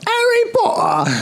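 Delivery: high, drawn-out mock British cry with dropped H's; squeaky-high caricature of a thick British accent. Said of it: "gonna talk like".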